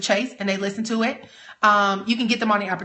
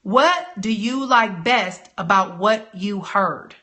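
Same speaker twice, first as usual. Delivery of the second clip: slow demo question; 4 semitones lower, slower than usual. Shown as a demonstration. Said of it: "Here's the number one question you ask".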